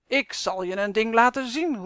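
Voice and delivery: angry calling out. A narrator's reading. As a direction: call it out as a furious threat. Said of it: "roept hij". (kwaad en dreigend roepend)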